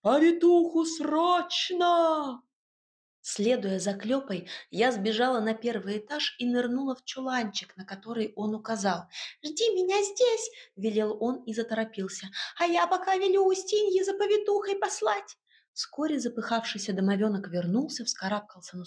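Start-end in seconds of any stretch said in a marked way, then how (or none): 0.0-2.4 loud, slow, higher yell; husband yells for the midwife urgently; urgent shout. A narrator's reading. 9.4-15.4 higher, brisk small-creature voice; a bustling little house spirit giving orders. Acted. House spirit Klyopa speaks.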